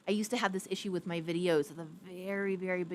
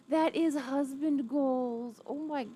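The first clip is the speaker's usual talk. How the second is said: gushing; 8 semitones higher, 4 dB louder, slower than usual. Real, not acted. Gushing about husband.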